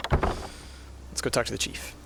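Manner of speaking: slow whisper to yourself. Real, not acted. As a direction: hush it out slowly. Repeating to self, whispered.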